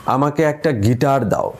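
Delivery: গিটার hit firmly, said slowly; stress on গিটার. Shown as a demonstration. Teacher demonstrating stress on গিটার, wanting only a guitar. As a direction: press on গিটার. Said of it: "তৃতীয় শব্দটায় জোর দিই".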